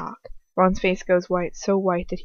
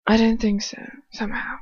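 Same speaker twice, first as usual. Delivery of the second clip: sneering; 2 semitones higher than usual. Acted. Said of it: "Lucius curls a sneer".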